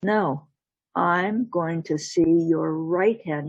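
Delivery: slow, deliberate demand; firm demand. Acted. Jack refuses the wife's left hand, slow firm demand. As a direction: space the words out and settle firmly.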